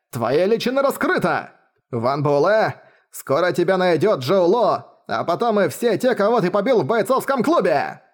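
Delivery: manic, laughing gloat; raving madman. Acted. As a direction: cackle it like a man gone mad. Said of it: "хохоча как помешанный".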